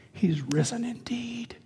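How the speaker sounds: breathy whisper, slow and hushed; the Easter words whispered, not shouted; whispered from the heart. Shown as a demonstration. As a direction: say it softly, as a private conviction. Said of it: "now I say it in my heart with passion".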